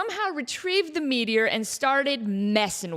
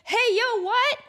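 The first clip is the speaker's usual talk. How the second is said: higher, louder sudden wake-up call; startled call; 12 semitones higher, 3 dB louder than usual. Retold or imitated. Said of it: "and was like".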